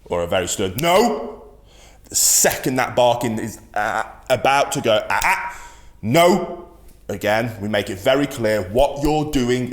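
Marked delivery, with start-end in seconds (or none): 0.0-1.5 sharp stern ah then a firm no; stern correction. Shown as a demonstration. Dog trainer demonstrating a stern correction to a barking dog. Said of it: "stern, deep, good vocal inflection". 5.1-6.6 sharp high ah ah, then a loud barked no; stern loud correction. Shown as a demonstration. Trainer showing owners how to correct a barking dog, loud and stern. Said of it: "sorry if this comes across loud on the mic".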